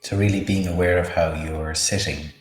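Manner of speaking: unhurried meditation guide, long pauses; measured, spacious mindfulness instruction; guided meditation. Acted. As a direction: lead a body scan calmly, leaving space between phrases. Leads a body-scan meditation.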